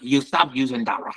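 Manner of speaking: hammed-up mock Chinese accent; broken-English Chinese accent imitation. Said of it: "it's more like".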